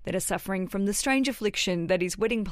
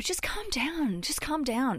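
patronising calm-down; 5 semitones higher, slower than usual. Retold or imitated. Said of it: "is to go".

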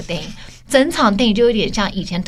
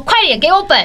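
higher, louder mock demand for the script; mock clamoring; 9 semitones higher, 5 dB louder than usual. Pestering a film friend for a script, mock clamoring. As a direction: nag the friend for a script, half joking. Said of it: "变得我自己在那边嚷嚷".

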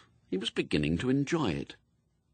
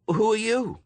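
put-on high, tearful young woman; 12 semitones higher, 4 dB louder than usual. A narrator's reading. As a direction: play her upset and surprised.

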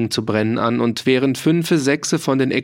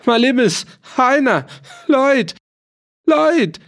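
calls building higher and louder to a desperate scream; yelling for help; 12 semitones higher, 4 dB louder than usual. A narrator's reading. Bound farmer screams for his people, louder and higher. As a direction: cry out louder with each name. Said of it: "brüllte Runotter".

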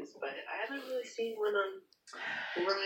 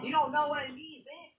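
lightly voiced angsty rocker, pitched up; a hint of rock-star angst, higher voice; angsty like a certain singer; 6 semitones higher than usual. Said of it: "So you get angsty, you get a little like a singer".

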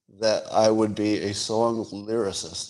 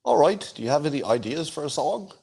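mock Liverpool accent, a little higher; 1960s Liverpool band accent; 5 semitones higher than usual. A band member asking bandmates for song ideas, 1960s Liverpool band accent. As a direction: do a light 1960s Liverpool band-style Liverpudlian. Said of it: "this is my Beatles accent".

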